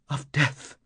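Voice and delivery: hushed, uneasy answer; woman character. A narrator's reading.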